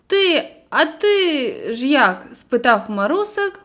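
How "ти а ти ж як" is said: mild breathless question. Acted. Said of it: "важко дихаючи".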